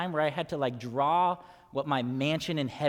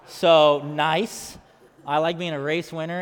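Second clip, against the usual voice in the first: louder, mock-proud exclaim; playful delight; 8 dB louder than usual. Real, not acted. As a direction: gush over the trophy jokingly. Joking over childhood drawing.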